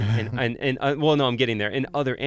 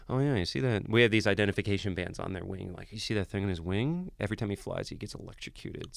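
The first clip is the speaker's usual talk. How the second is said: deadpan fib; 3 semitones lower, 5 dB quieter than usual. Retold or imitated. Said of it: "So I'd be like".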